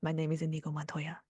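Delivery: put-on lightly done movie-character accent; a hint of the film swordsman's accent, measured phrases; understated accent, pausing between phrases; Inigo Montoya. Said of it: "if he does it in the accent".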